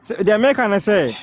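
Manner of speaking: repeated slowly for a listener who missed it. Real, not acted. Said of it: "what do you say?".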